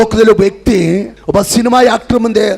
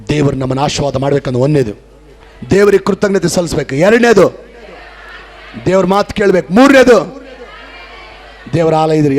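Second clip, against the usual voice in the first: preaching points; 3 semitones lower, faster than usual. Acted.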